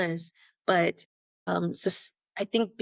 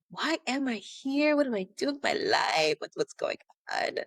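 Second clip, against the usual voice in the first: mock existential fretting; 5 semitones higher than usual. Asking herself during the seven-year itch, mock existential fretting. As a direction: fret at yourself, dropping away to near-whisper.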